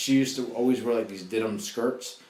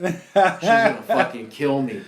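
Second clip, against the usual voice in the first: panicked; 4 semitones higher, 8 dB louder, slower than usual. Retold or imitated. Panicked kid after punching girl.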